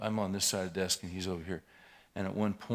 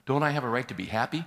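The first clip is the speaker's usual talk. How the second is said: parroting his words louder, with scorn; mocking echo; 5 semitones higher, 7 dB louder than usual. Pastor mocking the minister's excuse, loud and scornful. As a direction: throw his own line back at him mockingly. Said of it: "but you sound like 'em".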